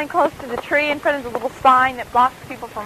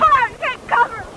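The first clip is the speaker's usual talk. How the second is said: imitating a shout; 10 semitones higher than usual. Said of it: "she's like".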